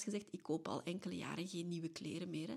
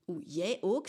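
retelling a friend's astonished "Oeh, jij ook?", a bit louder; mock astonishment, as if a big secret just came out; surprised; 5 dB louder, slower than usual. Friend on the phone reacting to news of therapy, surprised. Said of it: "En hij zegt dat zo heel verbaasd".

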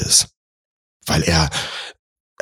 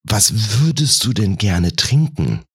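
slow, tentative question; careful, tiptoeing inquiry; very cautious; 3 semitones higher, slower than usual. Acted. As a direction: ask it gingerly, drawing the words out. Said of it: "fragt ganz vorsichtig".

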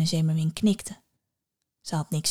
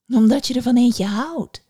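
louder, higher hag taunt; mocking witch; 5 semitones higher, 7 dB louder than usual. A narrator's reading. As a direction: taunt her lovesick answer. Witch mocks. (spottende heks)

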